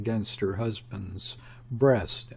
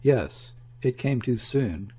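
gloomy husky voice. Acted. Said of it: "the gloomy, husky voice".

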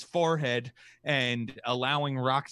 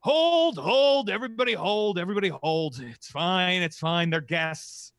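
booming high shout that settles to calm; commanding shout; 4 semitones higher, 5 dB louder than usual. Acted. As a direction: halt the fight, then ease off reassuringly. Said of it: "you hear a shout ring out".

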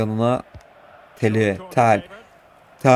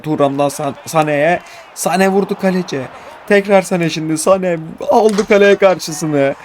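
excited commentary; 5 semitones higher than usual. Real, not acted. Shot commentary build.

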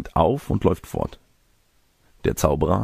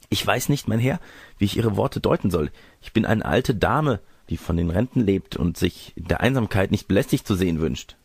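put-on prim old lady; 2 semitones higher than usual.

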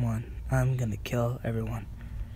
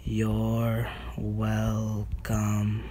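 smug; 3 semitones lower, 3 dB quieter, much slower than usual. Real, not acted. Smug after winning.

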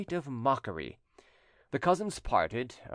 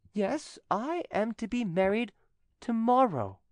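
triumphant announcement; 11 semitones higher than usual. A narrator's reading. Widow springs wedding news on cousin.

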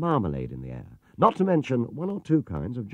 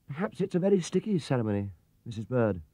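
small hopeful bear voice, higher and softer; hopefully; 3 semitones higher, 5 dB quieter than usual. A narrator's reading. Bear hopefully excusing himself to the housekeeper, softly higher. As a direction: try your luck gently. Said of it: "said Paddington hopefully".

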